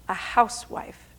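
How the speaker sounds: "housewife" with the weight on "house"; stress on house. Shown as a demonstration. Speaker showing the audience old wording, stress on house. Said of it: "Emphasis on the word house".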